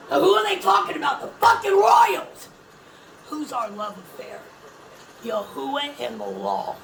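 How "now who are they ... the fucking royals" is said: high, loud outraged yell; angry shout. Real, not acted. Calling out the royals to viewers, angry shout.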